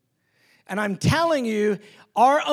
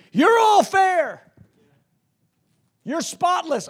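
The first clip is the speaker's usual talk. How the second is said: delighted Jesus; 8 semitones higher, slower than usual. Acted. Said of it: "and he's going".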